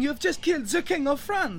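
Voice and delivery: high, panicked cry; horrified shout. Acted. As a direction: scream it in horror. King just killed.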